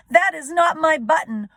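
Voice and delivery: loud, high wailing cry; teacher rereads Toad's wail. Shown as a demonstration. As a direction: wail it like a crying child. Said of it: "wailed Toad".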